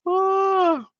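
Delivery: very high amused squeal; shrieking ah of amusement. Real, not acted. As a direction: let out a high squeal of delight. Reacting to a funny comment.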